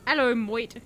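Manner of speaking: exaggerated Aussie vowels; hammed-up Australian accent; fake Australian accent. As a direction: another badly faked Australian greeting. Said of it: "in the fake Australian accent".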